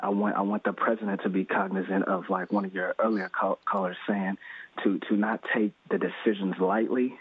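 ordinary talk

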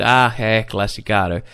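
low, unimpressed waiter; zero surprise. Retold or imitated. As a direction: shrug it off as routine, voice dropping. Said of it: "είχανε μηδενική έκπληξη".

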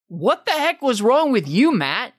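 high, loud scolding of himself; mock self-scolding. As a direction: berate yourself, half laughing. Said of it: "I was like".

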